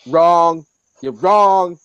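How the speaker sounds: Spider-Man. Acted. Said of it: "I want Spider-Man to go".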